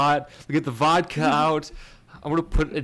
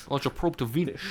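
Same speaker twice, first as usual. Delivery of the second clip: jokey, lightly done fake Russian accent; bad Russian accent; 5 dB quieter than usual. Co-host joining in the comrade bit, bad Russian accent. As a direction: put on a poor Russian accent. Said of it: "talking in really bad Russian accents".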